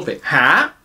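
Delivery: breathy "ha" with strong aspiration; "ha" bien aspiré; aspirated h. Shown as a demonstration. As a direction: puff out the "ha". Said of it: "on l'aspire".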